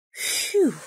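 airy puff of relief; relieved phew. A narrator's reading. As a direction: let out a relieved breath. Bear relieved, no mouse found.

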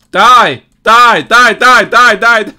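loud repeated cry; mock battle cry. Gamer cries die at the enemy. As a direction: hammer each cry. Attacking in game.

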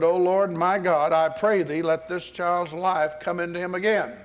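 retold cry to the Lord; crying out in prayer. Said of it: "cried to the Lord".

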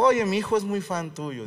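butter him up, voice lifted; flattering classmate. Retold or imitated. Mother telling the comedian about her son, flattering.

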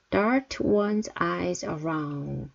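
very slow, each word drawn out; slow teacher demo; slow model reading. Shown as a demonstration. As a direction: spell it out slowly for learners. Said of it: "teacher models phrase slowly".

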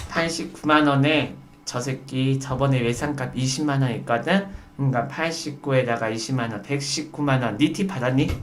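low, hushed plotting; confiding in waiter's ear. Acted. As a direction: murmur it secretly into the waiter's ear. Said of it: "웨이터가 귀 갖다 대".

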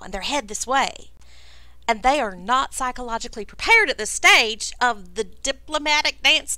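awkward Southern diplomacy, stressed words swooping up; lightly put-on genteel host voice; apologetic, folksy lizard host. Crackdust explains the awkward situation.

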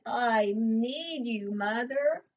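slow, mild tearful plea; longing for her mother, understated; sorrowful plea. Acted. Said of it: "she cried".

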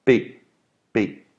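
B sound demo; soft B. Shown as a demonstration. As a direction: say "B" softly voiced. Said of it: "B is pronounced".

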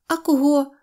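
put-on high, loud girlish question; inquisitive little girl. A narrator's reading. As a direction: demand it in a high voice. Синьоочка questions him, girl's voice. (вимогливий дівочий голос)

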